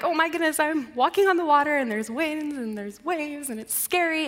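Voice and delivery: mild mock freak-out, running on. Peter out on the water, mildly freaking out. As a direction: let a touch of panic run through the list. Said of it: "his own moment of freaking out".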